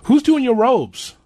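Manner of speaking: high, slow eager question; excited question. Real, not acted. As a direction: ask it with big interest. Host asks eagerly about robes.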